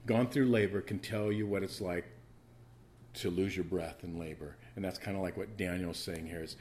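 ordinary talk

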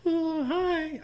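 high falsetto woman's greeting; failed falsetto girl voice; girl's voice. Acted. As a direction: squeak it out like a young woman. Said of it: "I can't do the girl's voice".

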